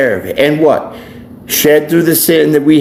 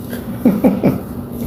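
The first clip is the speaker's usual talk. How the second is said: short, soft unvoiced chuckle; quiet laugh at the Jell-O line; breathy chuckle after the joke; 4 semitones higher, 7 dB quieter than usual. Real, not acted.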